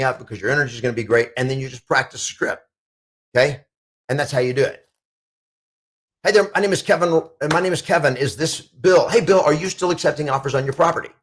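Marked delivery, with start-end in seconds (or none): 6.2-11.1 higher, upbeat phone caller; energetic cold-call greeting; cold-call demo. Shown as a demonstration. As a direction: sell it like a cheerful prospecting call. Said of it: "I'm just gonna practice the script".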